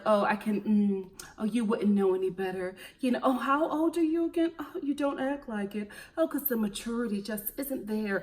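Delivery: a hint of condescending snob; lightly voiced haughty put-down; mock snooty woman. Vlogger mocking a snobby woman's put-downs, lightly condescending. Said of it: "They feel like".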